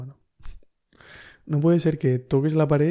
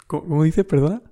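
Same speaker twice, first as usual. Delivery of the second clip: mock disbelief; 2 semitones higher, 5 dB louder than usual. Reacting in disbelief, laughing.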